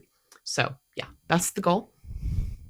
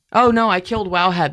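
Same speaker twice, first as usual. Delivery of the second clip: louder, dismayed outburst; 2 semitones higher, 6 dB louder than usual. Real, not acted. Vlogger realizing she killed Wowhead, dismayed. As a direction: cry out in mild alarm at a mishap. Website crashes during screen demo.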